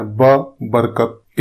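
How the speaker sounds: slow, each sound apart; drawn-out teaching demo of برکت. Shown as a demonstration. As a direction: say ب then برکت slowly, with a clear b. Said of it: "با سے بنا ہے".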